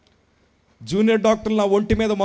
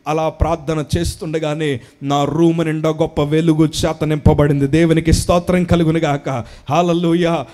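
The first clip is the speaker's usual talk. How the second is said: rousing praise; 3 semitones lower, 5 dB louder than usual. Real, not acted. Preacher praises, room filled light.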